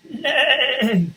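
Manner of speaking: a high loud neigh; whinny it like a horse. Acted. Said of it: "said the horse".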